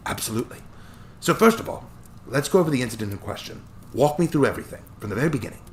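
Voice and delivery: put-on chuckling old attorney, light Scottish touch; cheerful old Scottish lawyer.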